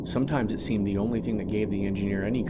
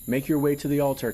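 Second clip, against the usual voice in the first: raised solemn warning; loud solemn guard; 6 semitones higher, 5 dB louder, faster than usual. Acted. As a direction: proclaim it like a temple guard.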